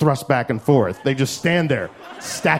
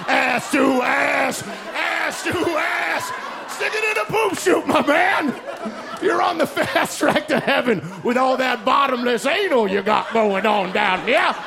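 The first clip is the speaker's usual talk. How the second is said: creepy dude impression; 9 semitones higher than usual. The Requiem for a Dream dude as God, high hammed-up leer. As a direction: lean in and leer the ass-to-ass chant. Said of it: "All my impressions sound like Foghorn Leghorn".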